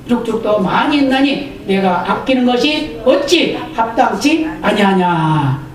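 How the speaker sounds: measured, formal Bible reading; scripture reading. Acted. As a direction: read the passage steadily to the congregation. Reads Jonah 4 aloud. (성경 낭독)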